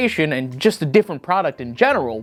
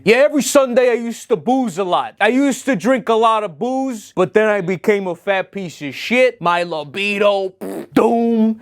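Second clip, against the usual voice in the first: higher, put-on voice of a gloomy ad guy confessing; mock ad guy voice; 5 semitones higher than usual. Mocking the football fan from the ad, in a put-on gloomy voice. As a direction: ham up a sad drinker in a commercial. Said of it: "He might as well be talking like that".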